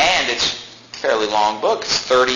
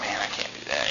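much softer, low, defeated murmur; cut to the heart; 7 semitones lower, 12 dB quieter than usual. Retold or imitated. Believer convicted by a verse, soft and crushed. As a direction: say it like the verse just floored you. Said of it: "And you're just like".

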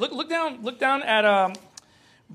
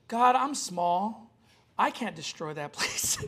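put-on sincere child's prayer; 5 dB quieter, slower than usual. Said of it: "it was super sincere".

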